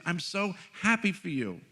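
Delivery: high-pitched mock delight; overjoyed director. Spiritual director answering his tears, imitated as overjoyed. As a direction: lightly imitate someone gushing with joy. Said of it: "She's losing it".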